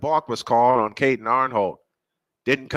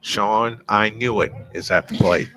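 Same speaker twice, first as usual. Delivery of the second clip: lower-pitched sportscaster impersonation; Chris Berman; 4 semitones lower than usual. Retold or imitated. Broadcaster does his best Chris Berman impersonation, lightly voiced. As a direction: lightly imitate a punning TV sportscaster. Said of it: "do my best Chris Berman impersonation".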